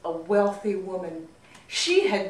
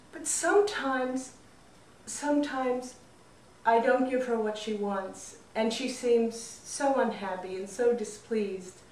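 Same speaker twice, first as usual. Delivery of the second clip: a hint of an anxious young man; young man's plea; 3 semitones higher than usual. Young man pleads to healer.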